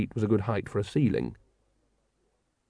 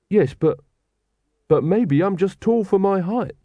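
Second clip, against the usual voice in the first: higher, pleading protest; grasping at a hope; desperate; 8 semitones higher than usual. A narrator's reading. Carrot desperately arguing with his father, pleading. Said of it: "said Carrot desperately".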